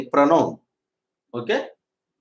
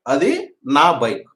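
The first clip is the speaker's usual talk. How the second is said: 1 slow dictation; much slower than usual. Shown as a demonstration. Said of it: "ఎట్లా చెప్తాం?".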